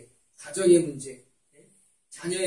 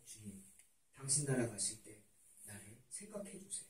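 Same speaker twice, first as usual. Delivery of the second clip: very soft, low plea; humble prayer; 8 semitones lower, 22 dB quieter than usual. Retold or imitated. Dying robber asks the Lord to remember him, humble hushed plea. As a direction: ask meekly, barely above a murmur. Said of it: "정말 겸손한 기도예요".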